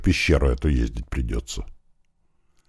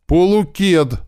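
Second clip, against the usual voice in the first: high, louder delighted cry; glad exclamation; 13 semitones higher, 4 dB louder, slower than usual. A narrator's reading. Woman spotting an old friend, calling out gladly. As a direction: exclaim his name in happy surprise. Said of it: "воскликнула она".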